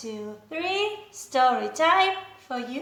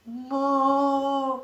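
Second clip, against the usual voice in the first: mock moo; 3 semitones lower, 3 dB quieter than usual. Shown as a demonstration.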